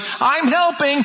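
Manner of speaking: put-on a light, slow little-kid voice. Kid helping dad carry something, lightly voiced small child. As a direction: play the proud small child. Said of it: "little kid that's helping dad".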